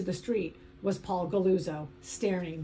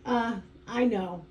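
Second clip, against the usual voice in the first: slow, stuttered reply; stuttering; slower than usual. Acted. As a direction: stumble over the words. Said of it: "I stuttered".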